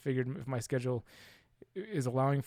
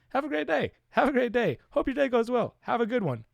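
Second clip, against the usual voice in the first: much higher chirpy farewells; sing-song goodbye; 12 semitones higher, 6 dB louder than usual. Real, not acted. Repeated sign-off, sing-song.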